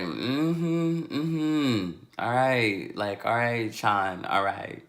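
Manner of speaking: drowsy, dismissive agreement; half-asleep mother. Retold or imitated. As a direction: imitate a mom brushing it off sleepily. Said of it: "so she still half asleep".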